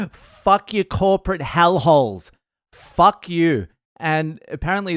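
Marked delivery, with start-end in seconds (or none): 0.1-3.7 raised, higher-pitched mock rant; angry yelling. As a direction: imitate a furious parting insult. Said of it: "he's yelling at the bar manager".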